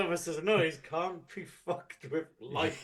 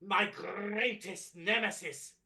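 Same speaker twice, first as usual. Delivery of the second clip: booming villain proclaiming from a throne; louder, grand and menacing; booming demon lord; 3 semitones higher, 3 dB louder than usual. Acted. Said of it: "presence of Doctor Chaotica, ruler of the cosmos".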